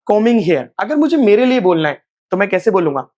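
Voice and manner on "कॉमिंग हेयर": "कॉमिंग हेयर" with M straight into -ing; silent B. Shown as a demonstration. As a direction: lead a repeat of "कॉमिंग हेयर", no B. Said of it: "बोलिए मेरे साथ".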